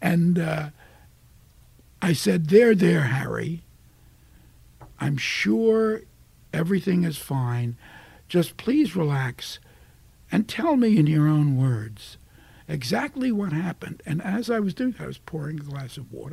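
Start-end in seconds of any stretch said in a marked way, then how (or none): 2.5-14.0 playing an older DA. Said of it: "I was playing it older".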